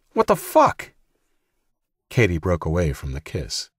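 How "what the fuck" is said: high shocked cry; shocked outburst. A narrator's reading. Brother shouting in disbelief, very high. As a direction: blurt it out much higher in shock. Jack outraged at kiss.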